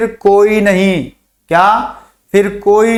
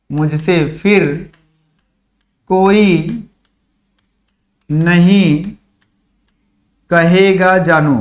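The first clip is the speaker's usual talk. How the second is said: lovingly; much slower than usual. Shown as a demonstration. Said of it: "लो भाई, बड़े प्यार से बोल रहे हैं।".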